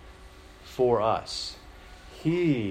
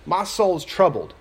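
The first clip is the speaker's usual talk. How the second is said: troubled Jesus; 6 semitones higher, 5 dB louder than usual. Retold or imitated. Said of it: "in verse twenty-seven".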